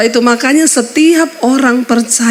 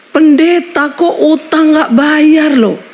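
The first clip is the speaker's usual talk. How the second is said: higher, slow drawn-out jeering call; mock debt collector yell; 5 semitones higher, slower than usual. Debt collector shouting at the pastor's door, mild mock yell. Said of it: "Teriakin kami dari pintu rumah".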